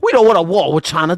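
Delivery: loud sarcastic echo of the senator; mocking parrot. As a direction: throw the line back at him loudly. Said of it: "repeats senator mockingly".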